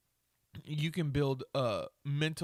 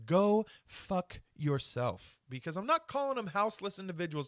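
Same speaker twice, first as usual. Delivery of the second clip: angry rant; 4 semitones higher than usual. Real, not acted. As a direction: spit it out, fed up. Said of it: "Do I sound angry today?".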